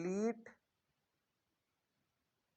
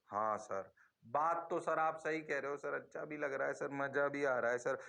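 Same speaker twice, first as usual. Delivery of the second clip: agreeing student; 5 semitones lower than usual. Acted. Teacher answers himself as the students, in a low voice. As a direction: play the dutiful pupil, pitched down.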